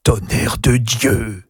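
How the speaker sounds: juron lent, étouffé par un sanglot; un cri étranglé par la peur; assourdi d'un sanglot. A narrator's reading. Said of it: "d'une voix qu'assourdissait un sanglot d'effroi". (Servière éclate, la voix assourdie d'effroi)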